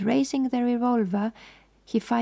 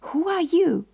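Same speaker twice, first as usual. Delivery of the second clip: higher, louder startled challenge; frightened demand; 8 semitones higher, 4 dB louder than usual. A narrator's reading. The woman confronts the strangers, frightened and higher. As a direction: snap it out in alarm. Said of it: "quick, frightened glance".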